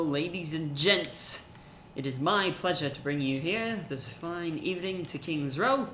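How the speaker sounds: badly faked British host, unhurried; weird British accent. Caster welcoming viewers to King's Row, hammy British accent. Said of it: "really weird British accent".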